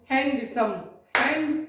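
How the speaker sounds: हैंडसम beaten out, then हैंड alone and slow; clapped syllables. Shown as a demonstration. Teacher counting syllables by claps, हैंडसम broken into beats. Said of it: "clapping method से".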